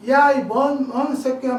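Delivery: imitating a loud, swearing caller; retold cursing. Farmer retelling the angry customer's cursing, loud. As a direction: throw the insult out loudly. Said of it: "욕을 욕을 하면서".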